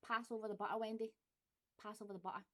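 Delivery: "butter" as a Glaswegian would say it. Shown as a demonstration. Reading the accent tag words for viewers, Glaswegian. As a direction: say "butter" with a Glasgow glottal stop. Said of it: "So the first one would be butter".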